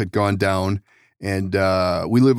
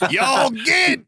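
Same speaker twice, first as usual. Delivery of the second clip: mock West Virginian shout at trespassers; West Virginian accent; 13 semitones higher than usual. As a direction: run them off in a West Virginian drawl. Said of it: "say, a West Virginian accent".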